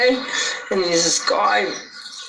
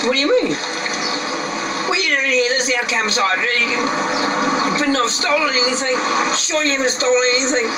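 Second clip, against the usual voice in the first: raised, higher accusing voice; accusing retort; 5 semitones higher, faster than usual. Retold or imitated. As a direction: demand it of the stranger, suspicious. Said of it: "it just reverted like that".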